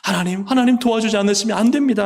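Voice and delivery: high, loud pleading cry to God; desperate prayer. Acted. Believer in trouble crying out to God, loud and pleading. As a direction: beg God with full urgency.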